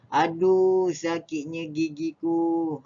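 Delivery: high aching moan over a sore tooth; pained exclamation. Shown as a demonstration. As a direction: cry out in toothache pain, stretched. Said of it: "dua perbezaan intonasi saya".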